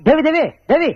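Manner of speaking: insistent repeated name-call; calling after someone. Acted. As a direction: call her back by name. Calls after woman walking away.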